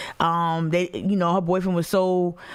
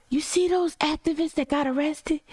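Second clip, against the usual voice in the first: higher voice with a thick North Carolina accent, imitating mom; mom's North Carolina accent; 9 semitones higher than usual. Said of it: "That's how my mom talks".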